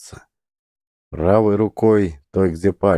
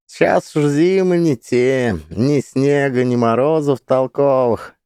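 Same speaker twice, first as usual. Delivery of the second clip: put-on high, loud folksy old woman; chatty village granny reminiscing; 7 semitones higher, 3 dB louder than usual.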